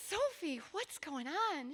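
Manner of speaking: worried parent asks her crying daughter; gentle parent. Retold or imitated.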